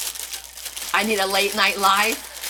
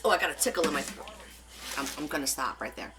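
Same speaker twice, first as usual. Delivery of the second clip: hurried aside; 7 semitones lower, 11 dB quieter, faster than usual. Real, not acted. Throat tickle, hurried aside.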